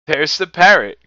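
loud, high shout of recognition; excited cry. A narrator's reading. Scrooge spotting the parrot from his book, crying out excitedly. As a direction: cry out in delight. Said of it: "cried Scrooge".

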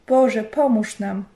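loud, slow desperate cry to God; calling out. Acted. Husband cries out to God at the burning house, loud and slow. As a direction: cry out to God as the roof burns. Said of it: "zawołał".

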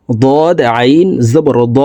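slow spelling, "দ" closed by a pressed throat sound; throat ain. Shown as a demonstration. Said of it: "হলকের মধ্যখান থেকে চাপ দিয়ে". ("দ"-এর শেষে হলকের মধ্যখান থেকে চাপা আইন)

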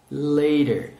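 "Later" clearly, with a final r; drawn-out teacher's model of "Later"; model pronunciation. Shown as a demonstration. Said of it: "One more time".

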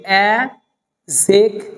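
"অ্যাডজেক্টিভ" slowly as a, zek, tiv; slow broken "অ্যাডজেক্টিভ", a-zek-tiv; silent d, syllable by syllable. Shown as a demonstration. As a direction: say "অ্যাডজেক্টিভ" in separate beats without d. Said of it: "এটা পড়তে হবে".

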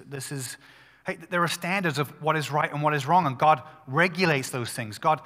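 ordinary talk

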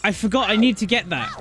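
sudden alarmed realization. Real, not acted. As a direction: it suddenly dawns on you. Remembers forgotten shield.

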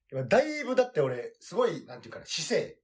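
talking around a cigarette; smoking while speaking, half lying down; cigarette in mouth. Real, not acted. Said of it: "タバコ吸いながら喋ってるからね".

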